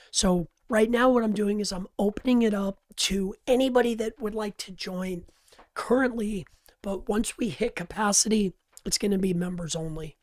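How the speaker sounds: hoarse, worn-out voice after shouting. Real, not acted. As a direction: talk through a hoarse voice. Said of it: "sorry for my voice".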